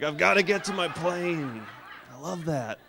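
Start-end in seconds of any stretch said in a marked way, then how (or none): 0.0-1.6 mock old man. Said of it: "It's like".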